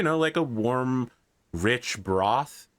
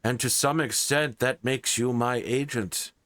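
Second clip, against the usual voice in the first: king voice; 3 semitones higher than usual. Acted. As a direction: speak like a stately king summoning a knight. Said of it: "the King of Somerset".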